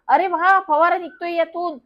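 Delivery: put-on thrilled boy shouting with glee; joyful shout. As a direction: yell it out happily as paint sprays. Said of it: "आनंदात ओरडला".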